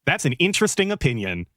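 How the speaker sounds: lightly mimicked dismissive brush-off; mocking imitation. Mocking the streamer's dismissive reply to a critic. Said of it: "not gonna speak to the validity".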